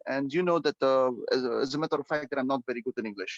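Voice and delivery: hesitant weak learner. Shown as a demonstration. Teacher mimics a nervous candidate stammering apologies. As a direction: play the stumbling nervous test taker. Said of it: "You keep saying".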